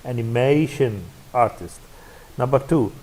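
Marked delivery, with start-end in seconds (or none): 0.0-1.8 animation stressed on MA, artist lighter; stress on MAY. Shown as a demonstration. Teacher showing the compound's stress, animation artist stressed on MA. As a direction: put the main stress on the third syllable of animation. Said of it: "That's may".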